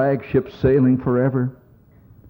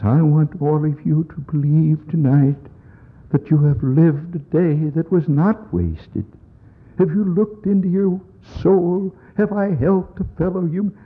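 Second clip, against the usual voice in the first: lofty, higher preacher's voice; TV reverend; 4 semitones higher than usual. Retold or imitated. Comic imitating the TV reverend's late-night sermon in a lofty voice.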